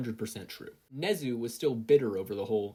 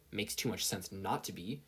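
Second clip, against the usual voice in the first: grumpy admission; 2 semitones lower, 5 dB quieter than usual. Acted. Katsuki grudgingly admitting to his conscience, soft and grumpy. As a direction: concede it unwillingly. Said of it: "Katsuki grumpily admitted".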